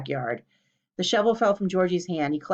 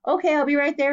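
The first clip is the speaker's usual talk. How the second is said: loud, higher call across the yard; calling back; 8 semitones higher, 5 dB louder than usual. A narrator's reading. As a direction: call out to friends outside. Boy calling back to friends.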